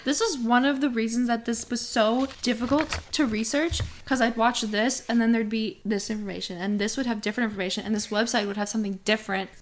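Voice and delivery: heated, rushed rant; firing off words, worked up; talking so fast. Real, not acted. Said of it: "You're getting so heated".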